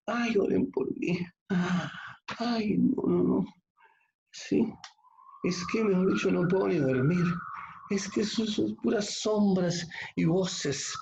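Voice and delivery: a hammed-up panicky believer, whimpering high; mock panic. Preacher imitates a fearful member begging for prayer, mock panic. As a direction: play the frightened church member begging prayer.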